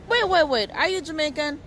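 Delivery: startled disbelief. Retold or imitated. Woman stopping a young passer-by, startled. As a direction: stop him short in amazement. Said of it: "So I said".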